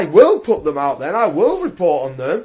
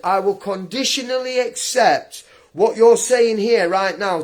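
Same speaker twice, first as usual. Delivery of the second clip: retold calm; 6 semitones lower than usual. To hospital staff demanding a visor, retold calm and measured. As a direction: recite it back evenly, like a legal statement. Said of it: "I told them very calmly".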